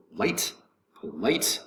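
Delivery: "polite" leaning on LIGHT; stress on second syllable. Shown as a demonstration. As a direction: give "polite" its weight on the last syllable. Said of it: "accent is gonna be over the second syllable".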